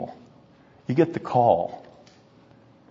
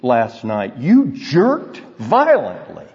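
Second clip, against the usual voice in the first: a lightly voiced wife asking what he dreamed; hint of an amused wife; wife's startled question; slower than usual. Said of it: "How many times my wife has said to me".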